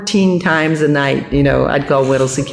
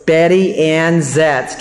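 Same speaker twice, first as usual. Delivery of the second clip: name drawn out word by word; slow recognition; much slower than usual. Retold or imitated. Guard recognizing his old neighbor on the phone, slow relish. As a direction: savor each part of the name slowly. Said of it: "And he goes".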